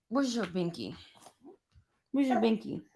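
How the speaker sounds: tender and hushed. Real, not acted. Soft question to her baby.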